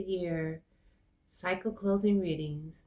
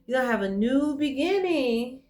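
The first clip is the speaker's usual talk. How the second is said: holding back tears; 7 semitones higher than usual. Real, not acted. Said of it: "I'm not gonna cry".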